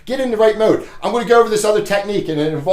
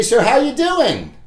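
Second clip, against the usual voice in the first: upbeat door greeting; 5 semitones higher than usual. Shown as a demonstration. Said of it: "you say".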